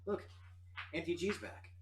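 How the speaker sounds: high, loud eager urging; excited pleading. Acted. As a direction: sell it like good news. NPC excitedly pitches resurrection.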